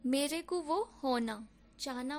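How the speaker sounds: मेरे को वो होना said slowly as Hyderabadi, with "ku" for को; slow Hyderabadi line with ku for को; Hyderabadi Hindi. Shown as a demonstration. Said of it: "ये लोग कैसे बोलेंगे?".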